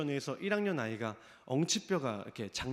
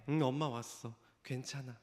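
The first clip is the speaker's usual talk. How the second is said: calm reassurance; 3 semitones lower, 6 dB quieter than usual. Retold or imitated. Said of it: "너무도 아무렇지 않게".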